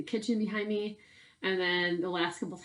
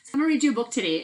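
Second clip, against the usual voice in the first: higher, louder, fast start; quick, lively announcement; bright eager opener; 4 semitones higher, 5 dB louder, much faster than usual. Real, not acted. Teacher starts reading to kids.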